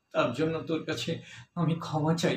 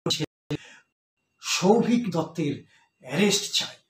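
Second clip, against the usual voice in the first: protest slogan. Acted. Protesters demanding the councillor's son's arrest, chanted slogan. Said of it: "আমরা slogan দিতে লাগলাম".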